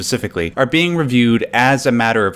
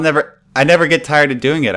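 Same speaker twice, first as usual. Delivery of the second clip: snake voice; 5 semitones higher than usual. Acted. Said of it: "I love doing the snake voice".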